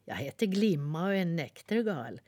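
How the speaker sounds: friendly little bird asking; little nightingale. Acted. Nightingale speaks.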